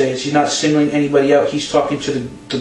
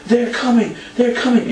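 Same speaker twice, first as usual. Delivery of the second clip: high-pitched imitation of alarm; mock alarm; 8 semitones higher than usual. Co-host retells the backstage promo, mock alarm. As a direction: play a wrestler raising the alarm. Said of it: "He's like".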